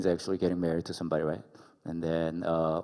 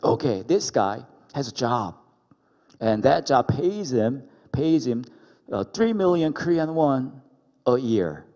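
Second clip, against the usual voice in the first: a louder, higher divine voice laying out the plan; God voice; 4 semitones higher, 6 dB louder than usual. Retold or imitated. Pastor as God telling Grace her husband's job. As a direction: announce it grandly as God.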